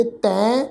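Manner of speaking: "ਤੈਂ" ending through the nose; nasal tone. Shown as a demonstration. Teacher showing how the scripture word is read, "ਤੈਂ" nasalised. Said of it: "ਨਾਸਕੀ tone 'ਚ ਪਾਠ ਉਚਾਰਨ ਕਰਾਂਗੇ".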